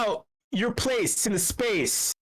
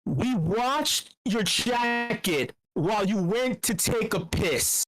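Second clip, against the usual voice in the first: slow, weighty reading of the quote; dramatic quote reading; slower than usual. Shown as a demonstration. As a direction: read it out like a solemn riddle. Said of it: "this quote is this".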